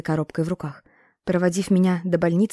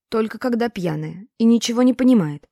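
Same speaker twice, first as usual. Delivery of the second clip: higher and louder, hotly protesting; heated objection; 5 semitones higher, 5 dB louder than usual. A narrator's reading. Boy hotly defends his drunk mother to Tatyana, heated. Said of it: "горячо возражает мне Артём".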